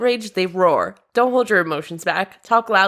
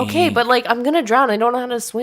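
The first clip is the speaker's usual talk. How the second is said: higher, pleading objection; mock worried protest; 4 semitones higher than usual. Victim protesting they can't swim, mildly pleading. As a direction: plead your case half-seriously.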